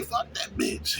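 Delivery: breathy whispered dismissal. Shown as a demonstration. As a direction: whisper it like a private shrug-off. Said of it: "you gotta say".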